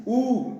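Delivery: ऊ as a long rounded oo; long oo sound. Shown as a demonstration. Teacher sounds out the vowel for students. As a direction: hold ऊ with rounded lips. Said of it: "ये pronounce होता है ऊ".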